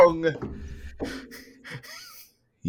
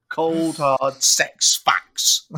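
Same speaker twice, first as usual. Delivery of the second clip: dramatic slow; 4 semitones higher, much slower than usual. Pretend.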